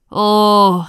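loud, held exclamation; long, loud "oh"; horrified cry. Acted. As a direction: cry out as an appalled judge. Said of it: "rief der Richter".

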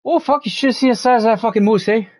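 high, hammed-up Canadian accent; put-on backwoods Canadian accent; stereotypical Canadian accent. Shown as a demonstration. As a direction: exclaim it like a Canadian hoser. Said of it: "That's what I sound like".

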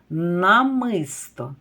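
намисто drawn out slowly; slow example word for children; slow careful word. Shown as a demonstration. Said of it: "Слухайте".

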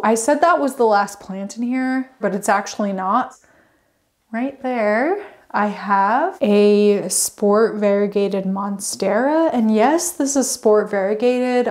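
ordinary delivery

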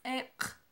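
Ek as one short crisp syllable; Mam word, clearly modelled. Shown as a demonstration. Teacher models the Mam word for black, clearly. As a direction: model Ek for the class to repeat. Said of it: "Una vez más".

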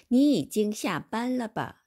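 你已经下班了吧 said very slowly; slow model Chinese. Shown as a demonstration. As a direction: spell out 你已经下班了吧 syllable by syllable. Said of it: "다시 한번 읽어봅니다".

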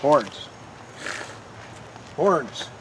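escalating call. Acted. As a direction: try to get someone's attention, building to a shout. Calling a man's name.

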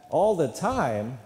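loud imitated congregation response; congregation yelling back. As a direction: call it back like a whole church. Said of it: "yell back".

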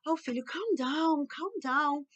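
mildly exasperated, drag out the words; exasperated parent. Shown as a demonstration. Models what not to say. (pai impaciente pedindo calma)

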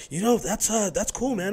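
high mock dismissive voice; unimpressed acquaintance. Rapper imitating a man unimpressed by his cooking. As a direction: say it politely, not impressed. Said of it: "And he's like".

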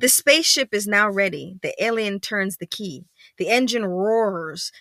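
animated storybook narration, punching key words; story read-aloud. A narrator's reading. Parent reading about spaceship launch, lively narration. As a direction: build up to the launch.

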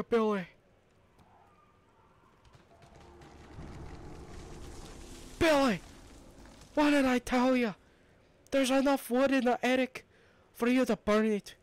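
put-on high, loud scolding of a naughty kid; shrill scolding yell. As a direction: yell at Billy like an exasperated parent. Yelling at Billy.

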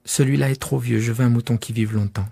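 fussy little critic; child asking for a sheep that lives long; little prince. Acted. Prince rejecting again.

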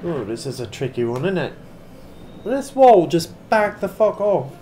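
badly faked British accent, chatty gamer commentary; amateur attempt at sounding vaguely British; mock British accent. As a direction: put on a dodgy, hard-to-place British accent. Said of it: "I know the accent's terrible".

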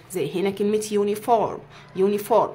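يونيفورم with a clear yoo at the start; yoo sound. Shown as a demonstration. Teacher sounding out يونيفورم for the class. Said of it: "اقول لك ليها قاعده".

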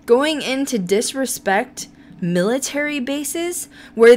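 worked-up, emphatic rant; indignant rant. Real, not acted. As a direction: rant in disbelief, punching the key words. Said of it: "now that I had my rant".

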